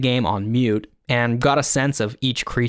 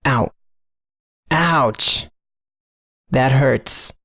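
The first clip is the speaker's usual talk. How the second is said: hot, clipping pained yelps; loud hurt cries; 3 dB louder, much slower than usual. Shown as a demonstration. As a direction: overdriven cries of pain. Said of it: "recorded my own voice deliberately hot enough to just clip".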